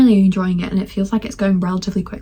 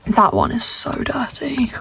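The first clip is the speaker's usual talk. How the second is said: whispered aside; 3 semitones higher, slower than usual. Real, not acted. Remark about the dirty window.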